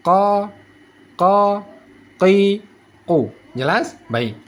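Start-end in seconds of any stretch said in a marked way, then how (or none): 0.1-3.3 "Ka, ka, ki, ku" each one back stop; single-scrape qaf. Shown as a demonstration. Teacher repeating for learners, "Ka, ka, ki, ku" knocked once each. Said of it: "Sekali kerok".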